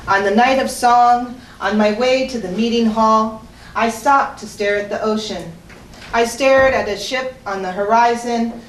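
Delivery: measured poem recital with weighted pauses; poetry reading. Acted. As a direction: read it as verse, phrase by phrase. Reads fourth persona poem.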